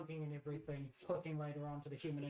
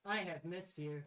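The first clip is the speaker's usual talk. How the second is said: cheery greeting; 4 semitones higher, slower than usual. Acted. Player greets friend in character.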